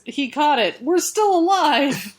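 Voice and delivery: high, drawn-out mock rejoicing; acted relief. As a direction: play rescued bystanders celebrating. Acts out the rescued people's relief.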